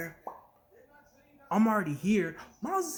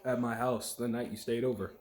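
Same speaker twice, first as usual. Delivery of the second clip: put-on British accent; 6 semitones lower than usual. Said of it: "they're like".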